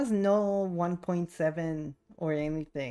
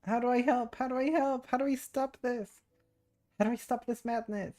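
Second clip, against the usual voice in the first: higher-pitched pleading for help; mock panic; 6 semitones higher than usual. Streamer begs to stop the keyboard madness, mock panic. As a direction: play up a helpless plea.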